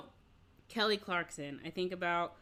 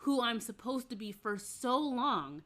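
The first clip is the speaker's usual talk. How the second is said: higher-pitched mock identity crisis; acted bewildered realization; 3 semitones higher than usual. Child star realizing they don't know themselves, bewildered. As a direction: play a sudden, dawning confusion. Acts out a young star's sudden realization.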